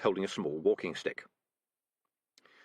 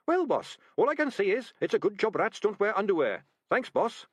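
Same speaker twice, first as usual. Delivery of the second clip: very high, cheeky rat; a relieved, jokey small rat; little rat voice; 10 semitones higher, 4 dB louder than usual. A narrator's reading. Sardines rescued.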